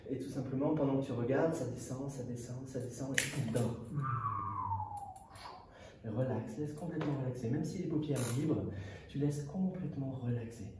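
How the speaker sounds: measured, calming hypnotist delivery; lulling patter with long pauses; hypnosis induction. Acted. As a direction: guide them down into relaxation, phrase by phrase.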